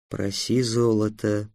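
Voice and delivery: soft, low, slow whisper. A narrator's reading. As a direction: whisper it aside to a friend. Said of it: "прошептал Васап". (шёпотом, тихо и медленно)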